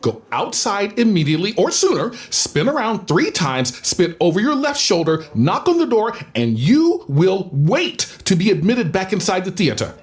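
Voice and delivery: imperious, with emphatic rises on key words; theatrical scolding. Acted. Director banishing a student for naming Macbeth, imperiously scolding. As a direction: lay down the law like a grand thespian. Scolding over the forbidden play name.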